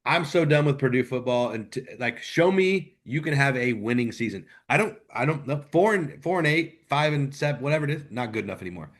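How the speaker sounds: venting his frustration, building steam; fired-up rant. Real, not acted. Fed-up fan ranting about Purdue football, mildly heated. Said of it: "that was quite a rant".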